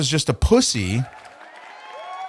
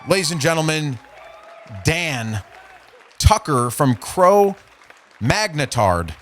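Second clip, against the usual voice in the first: mock announcer. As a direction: hype him up like a boxing announcer.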